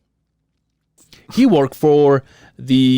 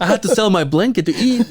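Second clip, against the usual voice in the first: laughing mock sob story; 7 semitones higher than usual. Mock pity for dad.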